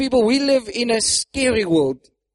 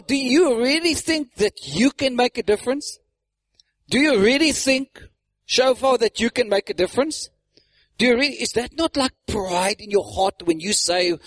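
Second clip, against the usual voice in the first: mock doubt, often pitched up; mocking accusation; 3 semitones higher than usual. The enemies scoffing at the builders' plans, mocking. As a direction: question them with exaggerated skepticism. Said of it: "the first thing is through mockery and accusation".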